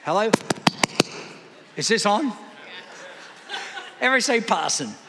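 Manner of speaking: a light Australian twang on "parson", said "PAR-sun"; Australian accent. Shown as a demonstration. Pastor coaxing the congregation, a light Australian accent. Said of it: "With an Australian accent and everything".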